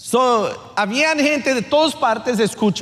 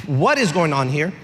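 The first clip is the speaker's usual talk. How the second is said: bewildered crowd; 6 semitones lower than usual. Retold or imitated. Crowd's bewildered reaction acted.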